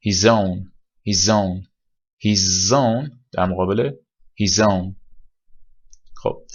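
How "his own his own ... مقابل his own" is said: his own linked smoothly, z into own; contrasting his own. Shown as a demonstration. Teacher contrasting takes of his own.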